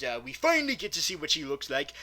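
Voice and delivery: normal talking voice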